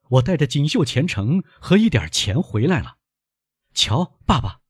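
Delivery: high, eager announcement; proud, excited son. Acted. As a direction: proudly show off to your father. Son proudly announces his fortune.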